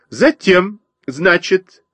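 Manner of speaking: high twittering sparrow. A narrator's reading. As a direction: twitter it like a busy bird. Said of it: "продолжала щебетать воробьиха".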